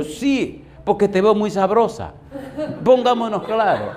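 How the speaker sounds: high, laughing mock come-on; playful laughing banter; laughing tease. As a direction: tease her through a laugh. Teasing girl in library anecdote.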